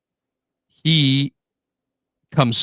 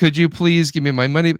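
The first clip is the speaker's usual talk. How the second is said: polite mock request, pitched up; nicely asking; 5 semitones higher than usual. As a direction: model a courteous customer's plea. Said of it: "nicely asked".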